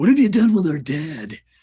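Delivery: loud, rough, gravelly, raspy voice. Showing the voice a role called for; rough gravelly college-kid voice. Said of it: "that sort of gravelly, hungover college kid type voice".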